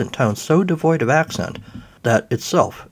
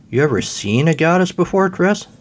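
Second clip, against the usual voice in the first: teasing goddess; 7 semitones higher than usual. Acted. Goddess teases Chris.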